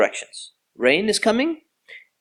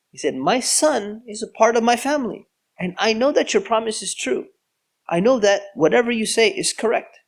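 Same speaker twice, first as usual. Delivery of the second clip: sad pleading prayer; 7 semitones higher than usual. Retold or imitated. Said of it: "he prayed to Allah out of sadness".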